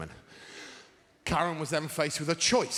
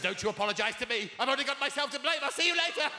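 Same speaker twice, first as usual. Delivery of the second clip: prim housewife; 8 semitones higher, faster than usual. Retold or imitated. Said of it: "like a repressed nineteen forties housewife".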